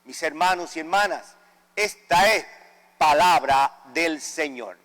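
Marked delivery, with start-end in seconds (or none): none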